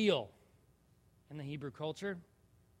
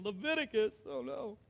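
dismayed listener; 8 semitones higher than usual. Retold or imitated. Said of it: "Some are going".

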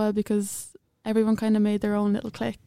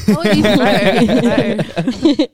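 excited; 14 dB louder than usual. Real, not acted. Delighted about trip abroad.

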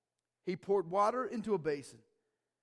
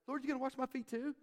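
casual demanding tone; 7 semitones higher, 4 dB quieter, faster than usual. Retold or imitated. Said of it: "He's not saying it like that".

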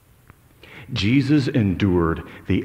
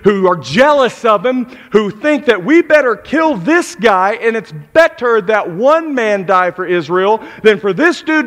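loud, high fiery sermon voice; loud, high preaching on greedy accusers; preaching at full force; 10 semitones higher, 8 dB louder than usual. Acted. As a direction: preach it hard to the congregation.

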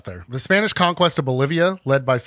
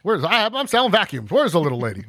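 salesman. Pretend. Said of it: "door-to-door salesman".

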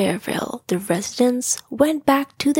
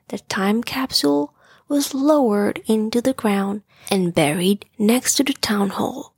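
whispered story narration. A narrator's reading. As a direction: whisper the story like tucking a child in.

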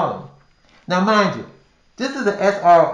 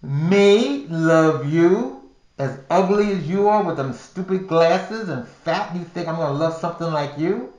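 mocking scorn. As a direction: ridicule him to his face. Mocking the man who loves her.

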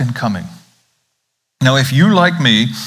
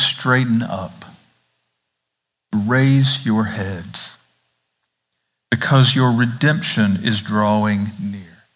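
tender encouragement; 3 semitones lower, slower than usual. Shown as a demonstration. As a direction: say "Straighten up" gently, slow, to the beaten down. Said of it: "He's talking to people who are burdened".

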